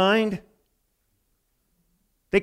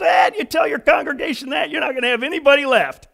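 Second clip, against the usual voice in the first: laughing retort; 5 semitones higher than usual. Retold or imitated. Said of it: "He laughed. He goes".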